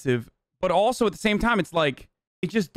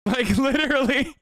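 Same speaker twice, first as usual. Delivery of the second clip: laughing disbelief; 7 semitones higher than usual. Real, not acted. Laughing at real racist segue.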